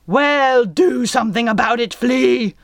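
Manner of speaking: loud furious captain; roaring. A narrator's reading. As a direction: roar the order fast. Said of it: "the captain roared".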